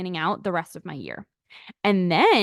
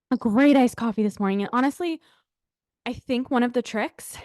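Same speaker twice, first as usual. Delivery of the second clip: out of breath; 2 semitones higher than usual. Real, not acted. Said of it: "guys, I'm out of breath".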